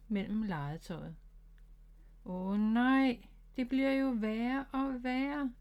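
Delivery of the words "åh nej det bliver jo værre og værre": rising panic, higher pitch; a touch of panic; alarmed exclamation. Acted. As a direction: blurt it out as things get worse. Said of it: "udbrød han".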